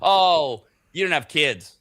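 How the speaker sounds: loud, hammed-up parental indignation; mock lecturing. Busy parent to a co-host with no kids, loud mock outrage. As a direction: lecture the childless like a put-upon parent. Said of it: "I do get these lectures".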